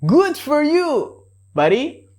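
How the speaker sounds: sincere congratulations; real praise. Shown as a demonstration. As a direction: genuinely cheer your buddy on. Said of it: "the real way".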